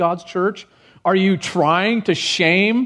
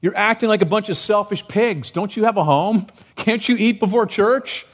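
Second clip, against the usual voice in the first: higher, indignant rebuke; pitched-up scolding of greedy churchgoers; scolding Paul; 5 semitones higher than usual. Retold or imitated. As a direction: scold them like a fed-up apostle. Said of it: "is the idea".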